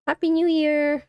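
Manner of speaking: high voice changer greeting. Real, not acted. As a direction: voice changer effect. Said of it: "Walrus sounds different this year".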